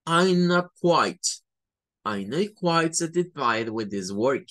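I'm not quite run together as ainat kwait; native-like contraction. Shown as a demonstration. Teacher shows native speaker linking to students. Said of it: "quiere sonar a más native speaker".

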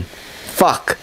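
a frustrated whispered swear under the breath; whispered curse. Real, not acted. To himself after missing the haymaker, a whispered curse.

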